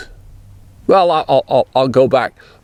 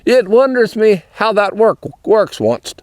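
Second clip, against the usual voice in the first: Pennsylvania Dutch phrasing; 4 semitones higher than usual. Retold or imitated. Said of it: "you might say".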